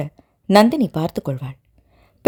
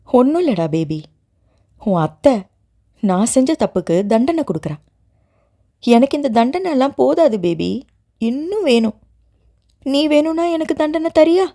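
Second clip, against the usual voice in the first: tender; 4 semitones higher than usual. Acted. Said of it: "Nandini உருக்கமாக சொல்ல".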